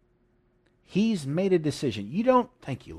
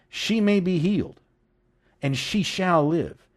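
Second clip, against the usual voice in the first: raised "She may be healed", then slow, deliberate "and she shall live"; emphatic declaration; 3 semitones higher, slower than usual. Acted. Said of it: "Look how emphatic this is".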